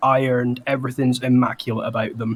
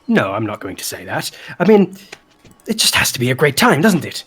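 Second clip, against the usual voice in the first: excited party host; 2 semitones higher, faster than usual. Acted. Flopsy's voice continues.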